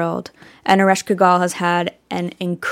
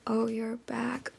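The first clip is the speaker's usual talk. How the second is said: gentle echo; 3 semitones higher, 13 dB quieter than usual. Retold or imitated. Creatures echo her grief for the child, softly. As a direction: hand her grief back quietly. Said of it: "echoed back to her".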